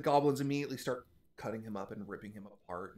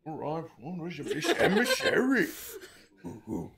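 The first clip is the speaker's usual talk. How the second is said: mocking hobgoblin; 4 semitones higher, 5 dB louder than usual. GM hobgoblin mocks.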